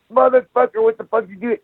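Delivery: high, sharp mock yell at a student; mock yell at the blue belt who stopped him; retold angry yell. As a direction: bark at whoever pulled you back. Angry at the student pulling him back.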